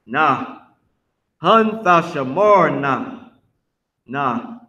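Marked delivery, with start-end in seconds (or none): 1.4-3.3 slow "Hun Thashamarna", leaning on Tha; corrective pronunciation. Shown as a demonstration. Teacher telling a student no Y, slow "Hun Thashamarna". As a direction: model "Hun Thashamarna" slowly, no Y. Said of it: "Nope, no Y".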